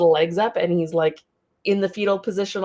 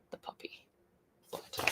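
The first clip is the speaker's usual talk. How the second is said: soft whisper; whispered aside; 25 dB quieter than usual. Real, not acted. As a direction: breathe it out fondly. Tender aside about the dog.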